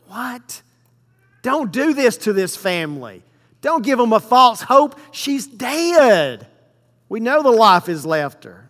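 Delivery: mock him as if he's mad; incredulous scoffing. Mourners ridicule Jesus.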